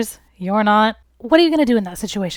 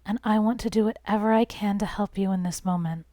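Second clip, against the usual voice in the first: tender whisper; 6 dB quieter than usual. Shown as a demonstration. To an upset partner, a soft tender whisper. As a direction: whisper it gently.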